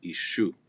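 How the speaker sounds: Ishu with a sh sound; "Ishu" pronounced ee-shoo. Shown as a demonstration. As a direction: say the s in Ishu like English sh. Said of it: "it sounds more like an S H".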